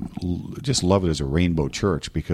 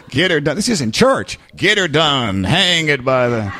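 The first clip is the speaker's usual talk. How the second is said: mock redneck shout; 7 semitones higher, 5 dB louder than usual. Southerners shouting about the Yankee.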